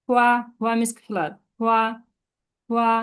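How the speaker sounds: flat level হুয়া; level হুয়া, meaning flower; first tone. Shown as a demonstration. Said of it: "এটা first টোনের".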